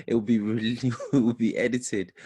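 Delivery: stumbling restart through a laugh. Real, not acted. Host introducing a poet after the cabbages line, laughing. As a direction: carry on reading through a short laugh.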